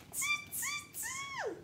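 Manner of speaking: very high squeaky monkey sound; monkey chatter. Acted. Monkeys in the tree teasing the peddler, squeaky high. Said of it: "and said".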